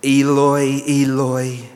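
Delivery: a loud, anguished cry of the name. Acted. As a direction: call out loudly, as if from the cross. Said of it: "Jesus cried out in a loud voice".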